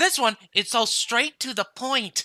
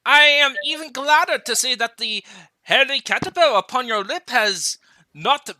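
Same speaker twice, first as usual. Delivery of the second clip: put-on Scottish accent; 4 dB louder than usual. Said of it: "trying to do a Scottish accent".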